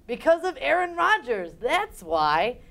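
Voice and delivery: loud, indignant comeback; defensive retort. Retold or imitated. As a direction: snap back defensively. Defensive Wisconsinite acted.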